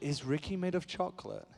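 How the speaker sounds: softly voiced English little girl; imitating a child's question in an English accent. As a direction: ask it as a small English child. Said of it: "'cause she's English".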